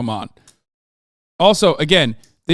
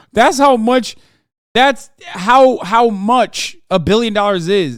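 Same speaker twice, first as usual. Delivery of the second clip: higher, slower, breaking into laughter; laughing; 5 semitones higher, 3 dB louder, slower than usual. Real, not acted. Streamer repeating the billion-dollar joke to chat, laughing. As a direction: laugh it out, slowly.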